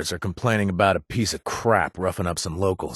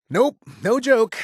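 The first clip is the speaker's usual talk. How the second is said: high, louder, insisting it's no joke; excited insistence; 5 dB louder than usual. Acted. Assuring partner it's true, high excited insistence. Emphatic denial.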